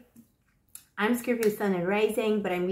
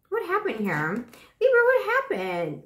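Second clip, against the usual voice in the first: surprised question; 8 semitones higher than usual. Real, not acted. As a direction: blurt it in surprise. Surprised at the card.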